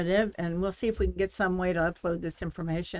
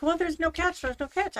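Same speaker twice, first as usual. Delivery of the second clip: scammer voice; 10 semitones higher than usual. Retold or imitated. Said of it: "And they were like".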